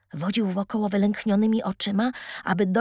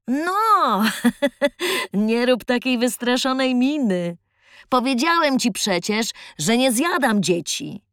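jovial tramp voice; 3 dB louder than usual. Acted. Tramp reassures frightened boy.

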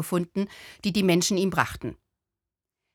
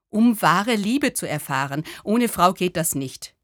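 lightly voiced lovesick man, insisting; earnest sad man; 3 dB louder than usual. To the little Buddha, a sad man's mildly insistent reply. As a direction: push the point like a heartsick stranger.

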